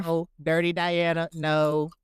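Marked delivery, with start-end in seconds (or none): 0.4-1.3 flat reading of lyrics. Pretend. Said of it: "Why you reading it like that?".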